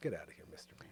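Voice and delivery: soft, whispered, brushing-off aside.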